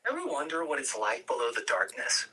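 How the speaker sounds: a hint of a young angel peering down; curious Zion. Zion asking Gabriel about the mortals below, wondering. Zion's lines at the edge.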